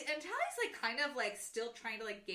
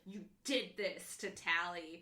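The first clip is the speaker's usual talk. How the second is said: through gritted teeth; 3 semitones lower, slower than usual. Retold or imitated. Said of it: "through gritted teeth".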